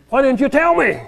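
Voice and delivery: husband whining to his wife after the missed turn; whiny complaint. Retold or imitated.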